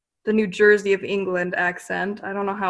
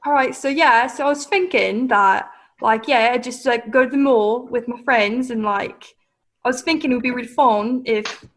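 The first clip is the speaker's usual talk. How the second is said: put-on British accent; 3 semitones higher than usual. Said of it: "so you'll do an accent then?".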